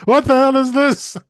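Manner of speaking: high, incredulous question; shocked onlooker. Retold or imitated. Crowd seeing the alien, high shocked disbelief. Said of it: "everybody goes".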